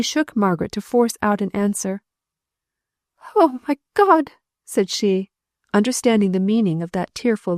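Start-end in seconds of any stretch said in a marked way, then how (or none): 3.3-4.3 high, loud cry of dismay; anguished cry. A narrator's reading. Widow understanding her husband is dead, crying out. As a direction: cry out in horror.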